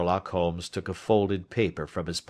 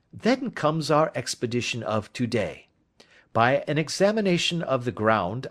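a touch higher, brisk and assured; a confident detective laying out his case; lightly voiced detective; 6 semitones higher than usual. Detective asking his friend for advice, lightly voiced. Holmes describing the expedition.

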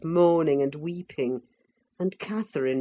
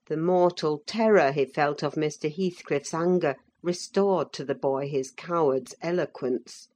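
plain reading voice

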